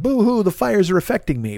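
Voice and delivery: lightly mocking whiny quote; mock whine. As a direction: brush off the complaint with a half-hearted boo-hoo. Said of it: "this isn't me bitching and being like".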